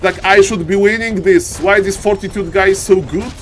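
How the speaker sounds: mildly mock-frustrated player's complaint. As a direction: voice a player's mild exasperation. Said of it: "He's angry. He's frustrated".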